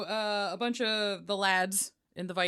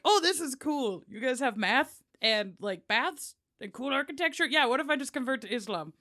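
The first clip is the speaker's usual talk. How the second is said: mock impressed Norman; 5 semitones higher than usual. Impressed Norman among Muslims.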